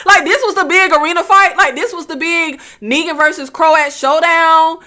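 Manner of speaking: laughing letdown, voice lifted; amused disbelief. Real, not acted. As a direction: question it in laughing, high-pitched disbelief. Mock disbelief at anticlimactic fight.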